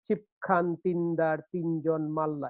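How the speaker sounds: slow, metrical "ছিপ খান তিন দার তিনজন মাল্লা"; measured verse recitation. Shown as a demonstration. Quoting a well-known poem as an example, measured recitation. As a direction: recite the line evenly, marking the beat. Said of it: "সবাই যে কবিতাটির উদাহরণ দেয়".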